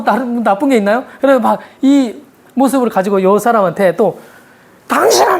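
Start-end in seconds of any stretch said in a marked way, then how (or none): 4.9-5.4 a half-hearted imitated tantrum; retelling a wife lashing out at her husband, a mild mock yell; mock angry outburst. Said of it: "욕하고 막 성질 부리고".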